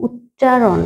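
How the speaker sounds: "উচ্চারণ" in careful parts, ut-cha-ron; word as spelt. Shown as a demonstration. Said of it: "কিন্তু এটা আমরা বলি কি?".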